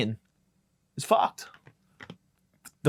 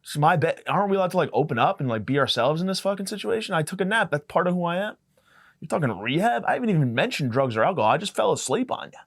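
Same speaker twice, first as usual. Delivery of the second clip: indignant protest; 5 semitones higher than usual. Retold or imitated. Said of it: "I'm like".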